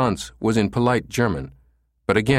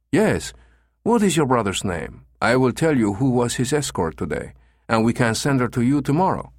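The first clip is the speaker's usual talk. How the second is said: put-on higher-pitched, lightly accented manager; obliging agency manager; 4 semitones higher than usual. Manager offers to send the escort tomorrow, obliging.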